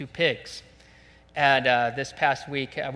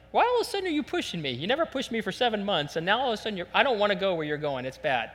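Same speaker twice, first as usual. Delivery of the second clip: protesting pig; 4 semitones higher, faster than usual. Acted. Pig objects to being pushed toward the trailer, protesting. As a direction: voice a balking pig, quick and indignant.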